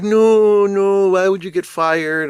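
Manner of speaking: a hint of a stunned mother pleading; shocked mother. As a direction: play the mother caught off guard by the news. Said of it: "And the mother's like".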